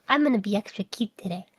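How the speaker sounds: a hint of a sweet sleepy streamer; extra cute streamer. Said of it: "I have times where I'm like".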